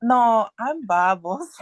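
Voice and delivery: slow, deadpan duck answer; slow punchline delivery. Acted. Third duck to the judge, slow deadpan punchline. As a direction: let the punchline land slowly.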